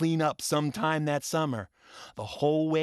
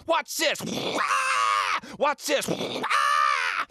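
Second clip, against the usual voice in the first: excited yelling; 11 semitones higher, much slower than usual. Retold or imitated. Boy to his classmates in the restroom, excited high shouts. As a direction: shout it like a boy on a water slide. Boys playing in school restroom.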